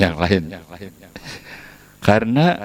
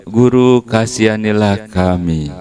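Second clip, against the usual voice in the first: calling out; 3 semitones higher than usual. Retold or imitated. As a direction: cry for mercy. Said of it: "dia bilangnya tuh".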